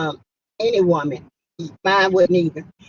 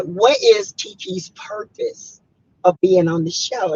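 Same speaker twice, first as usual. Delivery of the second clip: imitating her daughter; 9 semitones higher than usual. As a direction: put on a young daughter's curious voice. Mother voices her daughter's question.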